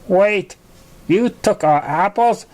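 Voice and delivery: slow, disbelieving question; mild surprise, filly voice; surprised friend. Acted. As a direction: catch on, surprised.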